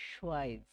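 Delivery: সোয়াইজ with the v sounded as o; teacher spells out সোয়াইজ slowly; correct pronunciation. Shown as a demonstration. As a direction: model সোয়াইজ, ending in a z sound. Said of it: "এই ভের উচ্চারণটা ও এর মতো হয়ে যায়".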